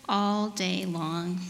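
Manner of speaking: expressive picture-book narration, drawn-out key words; measured storytime voice with playful emphasis; storybook reading. A narrator's reading. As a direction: read it aloud to little children, unhurried. Reads storybook to children.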